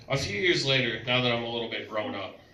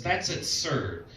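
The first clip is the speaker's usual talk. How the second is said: mock indignant; 4 semitones higher, much slower than usual. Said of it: "she says".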